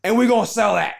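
slow, high announcing voice; hammed-up, slow proclamation; mock company voice. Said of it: "So they said".

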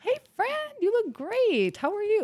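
sing-song, high-pitched hello; gushing friendly greeting. Acted. Event host greeting friends in a good mood, gushing.

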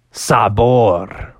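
breathy mysterious whisper of a name; dramatic whisper. Acted. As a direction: whisper it like a big secret. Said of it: "he's like".

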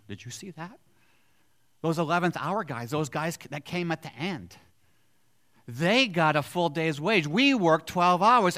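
worked-up worker counting wages; indignant voice of the early workers. Acted. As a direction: protest like a cheated laborer. Voicing envious first workers.

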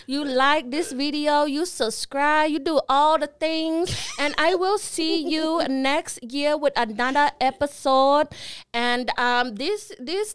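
hammed-up Asian accent for the outro; put-on Asian accent. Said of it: "Does it sound like Asian?".

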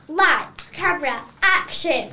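loud director's call to start the take; calling action. Acted. Director calling the actors to start, loud call. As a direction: bark out the cue to roll.

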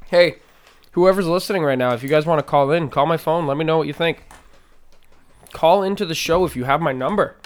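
loud call to listeners. Real, not acted. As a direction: raise your voice, call out to the audience. Calling out to listeners.

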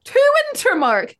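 high-pitched mock rally cry. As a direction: call the crowd onward. Mob rallying to next house.

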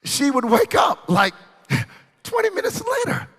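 high, loud, laughing outburst; excited shout. Real, not acted. Laughing at grandmother waking up.

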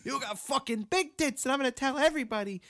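high put-on voice, mocking the brother; mock creepy brother. Retelling the brother's threat to the cohost, high and mocking. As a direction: squeak it out like a pervy kid brother.

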